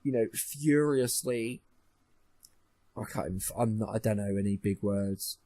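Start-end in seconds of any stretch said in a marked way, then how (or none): 0.0-1.6 slow, drawn-out mock-refined phrasing; mock posh wording. Shown as a demonstration. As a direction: stretch out the fancy word like a snob. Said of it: "to say".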